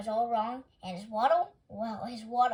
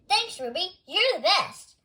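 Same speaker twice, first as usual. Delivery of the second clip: eager; 7 semitones higher, 8 dB louder than usual. A narrator's reading. Clyde thanks Roberta eagerly.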